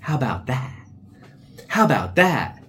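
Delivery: high, taunting repeat; snarky put-on voice. Mocking the old boyfriend with a taunt. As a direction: needle him with a mocking tone. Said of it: "I'm like".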